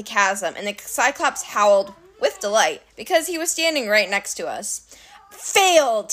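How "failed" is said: gleeful. Acted. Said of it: "he said gleefully".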